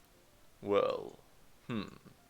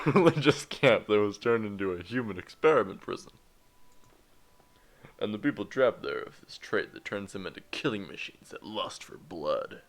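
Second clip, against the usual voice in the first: put-on Italian accent; 5 dB louder than usual. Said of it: "Why am I doing an Italian accent?".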